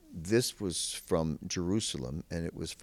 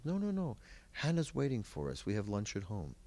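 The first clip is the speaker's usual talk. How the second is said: put-on insistent old host; 4 semitones higher, 4 dB quieter than usual. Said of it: "He says".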